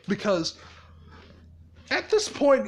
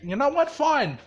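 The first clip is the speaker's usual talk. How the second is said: higher-pitched huffy outburst; fed up; 6 semitones higher than usual. Retold or imitated. Izuku giving up on teleporting normally, high and huffy. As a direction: snap into a high, exasperated huff.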